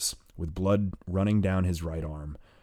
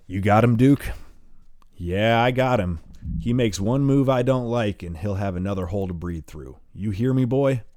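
higher, louder menacing bad cop; hard loud threat; 3 semitones higher, 5 dB louder than usual. Hayduk playing bad cop, threatening the wounded boy loudly. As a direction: lean into the threat.

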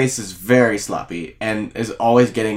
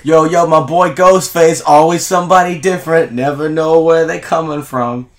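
terrible put-on voice; 3 semitones higher than usual. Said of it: "I don't know what that was, but it was terrible".

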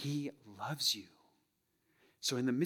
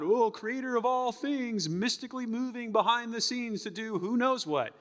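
mock lofty prayer; 10 semitones higher, 5 dB louder than usual. Preacher parodying prayer to an abstract God, mock lofty intoning. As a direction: intone it like praying to a remote, abstract deity. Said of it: "Don't, don't this abstract God".

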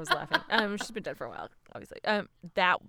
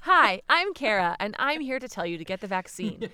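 mock PSA spokesperson; 5 dB louder than usual. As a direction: play a cheesy commercial spokesperson. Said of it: "beginning of a P S A".

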